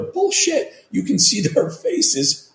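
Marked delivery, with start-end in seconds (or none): 0.0-0.7 scoffing. Real, not acted. Scoffing at official excuse.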